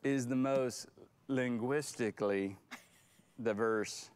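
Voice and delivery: put-on country accent. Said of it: "with a country accent".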